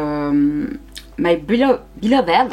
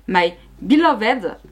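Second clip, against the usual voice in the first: English name in a French accent; French speaker carefully attempting English; much slower than usual. Real, not acted. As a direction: say "My Beloved" slowly with a French accent. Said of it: "avec mon accent anglais".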